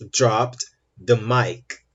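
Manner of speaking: very slow, separated words; slow model phrase. Shown as a demonstration. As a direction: model it slowly for learners. Teacher models example slowly. (frase-modelo lenta e pausada)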